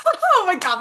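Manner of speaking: high, giggly retold amusement; giggling to herself. Wandering the festival alone in her story, giggling to herself. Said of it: "giggling to myself, like, out loud".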